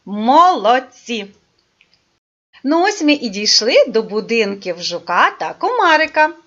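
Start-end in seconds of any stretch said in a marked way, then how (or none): 0.1-1.3 slow, stretched-out praise; drawn-out praise. Real, not acted. Teacher praising the children, slow and drawn out.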